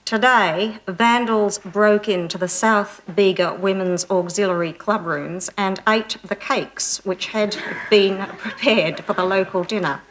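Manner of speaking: slow, deliberate country news read; mock small-town newsreader; local radio newsreader. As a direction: read the news carefully, word by word. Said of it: "this man was saying".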